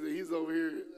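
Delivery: ordinary talk, nothing marked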